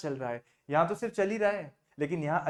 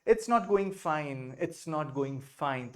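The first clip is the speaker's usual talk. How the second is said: slow model phrase; much slower than usual. Shown as a demonstration. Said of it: "उस case में हमको बोलना है".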